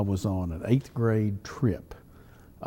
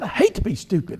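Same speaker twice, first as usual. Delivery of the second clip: a hammed-up, high-pitched imitation of a fuming friend; imitating angry friend; 11 semitones higher than usual. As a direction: squeak it out like your hunting buddy fuming. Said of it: "He was really mad".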